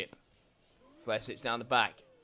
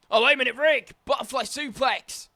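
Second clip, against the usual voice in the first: higher, louder sudden "wait a minute"; surprised outburst; 7 semitones higher, 3 dB louder than usual. Real, not acted. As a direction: react to the surprise comeback. Sudden comeback in the match.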